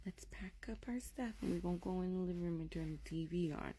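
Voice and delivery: softly keeping it casual; feigned calm. Retold or imitated. Mother hides her alarm from daughter, softly calm. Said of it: "I didn't wanna seem alarmed".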